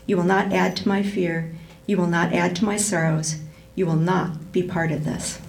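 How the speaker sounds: measured and firm, each "You will not" set down calmly; lightly voiced mother giving her son orders; even, commanding tone. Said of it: "spoke in an even, commanding tone".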